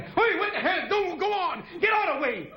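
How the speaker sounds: high mock yell through laughter; father yelling. Father at the window yelling at a passing hand, high mock yell. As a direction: bark it like an angry father at the window.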